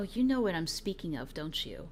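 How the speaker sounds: put-on, low, hushed, cryptic, knowing mysterious tone. Speaker mimics a man who won't be specific, in a mock-mysterious tone. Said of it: "with this mysterious like".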